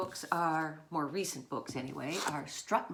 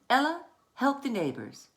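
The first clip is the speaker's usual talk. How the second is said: Mama calls Ella, higher and louder; calling out; 7 semitones higher, 6 dB louder than usual. Acted. Mama calling Ella to help, higher and louder. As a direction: call her across the yard. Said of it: "Mama said".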